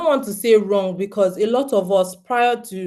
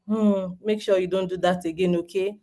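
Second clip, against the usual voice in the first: patient; 4 dB quieter than usual. Retold or imitated. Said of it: "is enhanced patience".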